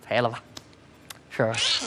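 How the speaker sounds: low, soft, feeble mumble of a cry; weak, starved. Acted. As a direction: give it no energy at all. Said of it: "两天没吃饭了是怎么着". (有气无力、又低又轻)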